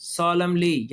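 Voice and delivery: "solemnly" said sol-em-lee with no n; silent n in solemnly. Shown as a demonstration. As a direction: drop the n in "solemnly". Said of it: "इसमें भी एन नहीं बोल रहा". ("solemnly" में एन खामोश रखें)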